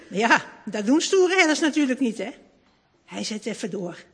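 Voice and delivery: ordinary delivery, nothing marked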